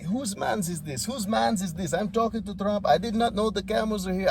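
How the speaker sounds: mock disbelief at being interrupted; Zelensky. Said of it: "Zelensky was like".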